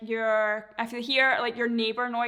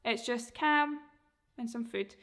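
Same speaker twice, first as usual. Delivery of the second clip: easy relaxed "cam", then food; calm cam; 4 dB quieter than usual. Shown as a demonstration. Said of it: "your delivery should be calm".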